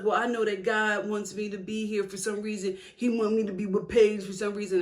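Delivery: a hint of the smug boyfriend quoting God; mock Chris. Vlogger imitating Chris justifying himself. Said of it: "he's just like".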